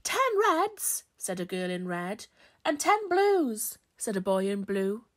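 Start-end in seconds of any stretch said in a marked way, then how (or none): 0.0-1.0 put-on high, loud little girl's answer; pitched-up classroom shout; shouting child. A narrator's reading. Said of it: "The children shouted again". 2.6-3.8 put-on high, loud, drawn-out boy's answer; slow, pitched-up classroom call; shouting child. A narrator's reading. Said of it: "The children shouted again".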